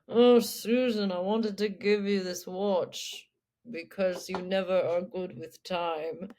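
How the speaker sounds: slow, lightly drawled British man. Retold or imitated. Ian offering Susan a watch, slow drawl. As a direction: drawl it out of the side of the mouth. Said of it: "He, he has a drawl".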